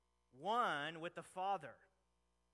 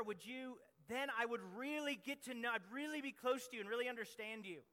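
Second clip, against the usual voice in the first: pleading, a little higher, as his younger fired-up self; mock eager young prayer; 3 semitones higher than usual. Preacher imitating his younger self praying, eager and pleading. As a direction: beg God like an impatient young believer. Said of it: "I'm just going".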